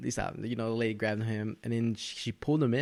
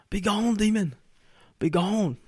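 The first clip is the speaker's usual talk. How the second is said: high, ringing hammed-up exorcist; hammed-up priest casting out a demon; mock exorcist command; 11 semitones higher, 5 dB louder, slower than usual. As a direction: banish the demon with mock grandeur. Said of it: "And he's like".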